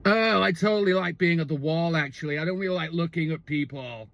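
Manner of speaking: mock frat-bro drone. Boyfriend answering her about the yoga wall, frat-bro voice. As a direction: imitate an easygoing bro with stretched vowels. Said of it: "like, a sort of a frat bro".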